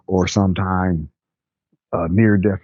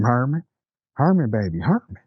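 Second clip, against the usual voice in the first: pleading mother; 4 semitones higher than usual. Retold or imitated. Mother shaking her limp son.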